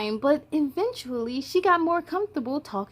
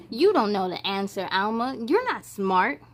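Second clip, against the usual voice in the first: low taunting; mean bully voice; 5 semitones lower than usual. Acted. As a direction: sneer like a mean kid.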